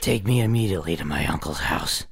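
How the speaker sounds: put-on young girl. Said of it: "And play a young girl".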